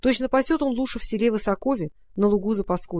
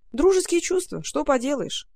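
sighing raccoon; 5 semitones higher than usual. Acted. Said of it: "вздохнул енот".

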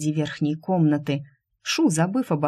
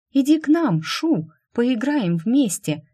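put-on luring child's call; 7 semitones higher than usual. Twin children lure Shu to play, high enticing call. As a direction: call her sweetly to come and play. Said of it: "манили переливами прозрачных ручьёв".

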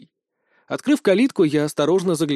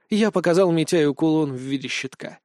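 usual speaking voice

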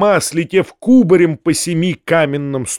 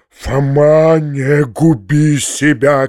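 shouting; 3 dB louder, much slower than usual. Acted. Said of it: "кричал дядя".

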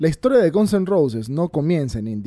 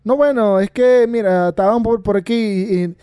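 higher, louder nervous stammer; trembling; 6 semitones higher, 4 dB louder than usual. A narrator's reading. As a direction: stammer it out scared. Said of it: "tembló y le dijo".

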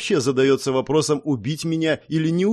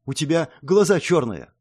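usual speaking voice

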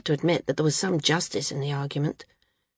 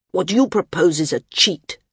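bitter; 4 dB louder than usual. Acted. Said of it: "Sina said bitterly to the landsman".

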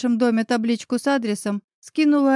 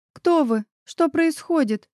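near hysteria; 5 semitones higher, slower than usual. Acted. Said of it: "на грани истерики всхлипнула я".

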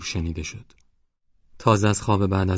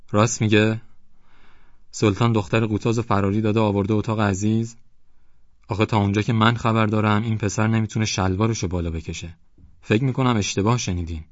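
raised, swaggering retort; arrogant headman; 2 semitones higher than usual. Acted. Headman swaggers back at the villagers. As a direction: brush off the accusation with contempt.

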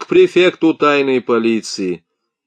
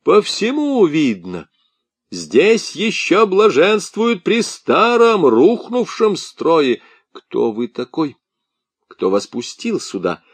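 angry yell; 7 semitones higher than usual. A narrator's reading. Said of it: "заорал он с порога".

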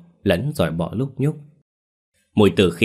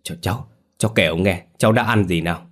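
trembling voice; faster than usual. Acted. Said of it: "Giọng run run hỏi Bảo".

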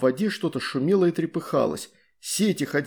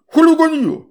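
gurgling scold; 13 semitones higher, 10 dB louder than usual. A narrator's reading. River spirit scolds.

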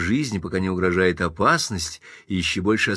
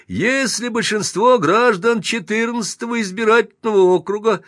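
mock sugary; 10 semitones higher, 4 dB louder than usual. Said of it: "нарочито елейным голосом".

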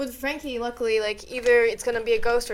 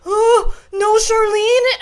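sister scared; 8 semitones higher, 5 dB louder, much slower than usual. Retold or imitated. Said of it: "she goes".

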